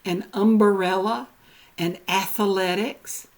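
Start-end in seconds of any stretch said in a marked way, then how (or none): 0.3-1.3 "umbrella" with an uh after b, um-buh-rella; extra vowel. Retold or imitated. Quoting how people say it, extra syllable in "umbrella". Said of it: "have you not heard people say". 2.1-3.3 "athletics" with an uh after th, ath-uh-letics; extra vowel. Retold or imitated. Quoting how people say it, extra syllable in "athletics". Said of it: "have you not heard people say".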